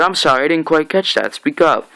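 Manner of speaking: high, quick taunting villain; mock not hearing. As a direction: needle them with fake politeness. Villain taunts Rick's threat.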